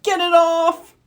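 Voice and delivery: high, frantic cry to get it off; mayor begging for help, frightened; panicked plea. Acted. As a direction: plead in a fright. Octopus stuck on mayor's head.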